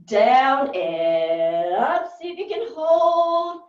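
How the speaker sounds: loud, stretched, sing-song count; drawn-out coaching cue. Real, not acted. Coach cueing the class to hold, drawn-out call. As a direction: stretch the words out as the move is held.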